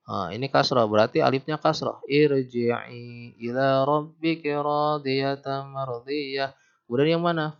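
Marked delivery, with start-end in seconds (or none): 2.1-6.6 slow chanted tilawah, phrases fading at the end; Quran recitation. Shown as a demonstration. Teacher reading Al-Fajr aloud to the class, slow chanted recitation. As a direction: recite the verse with melodic lengthening.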